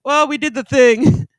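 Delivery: high, loud, drawn-out mock confession; Adam and Eve confessing. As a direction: own up loudly in a slow, high voice. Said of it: "He's like".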